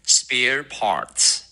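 spare parts slowly, both Rs curled; curled-tongue R. Shown as a demonstration. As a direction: draw out spare and parts as careful models. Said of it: "我们再来一遍".

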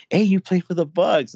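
imitated fan call-out. People strolling up to the player, imitated excited call-out. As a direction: call out like a passer-by spotting someone.

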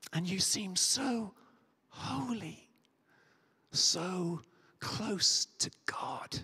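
slow hushed poem lines, almost whispered; hushed, slow and intimate; hushed reading. Acted. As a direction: drop to a near whisper, slowly. Poem's climax, hushed.

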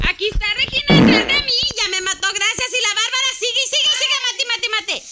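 frantic calling-out. Real, not acted. Calling out while being killed.

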